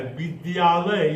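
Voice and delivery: विद्यालय said slowly as वि-द्या-लय, each cluster clear; spelled-out pronunciation. Shown as a demonstration. Teacher sounding out विद्यालय slowly for children. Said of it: "तो ये ऐसे होता है".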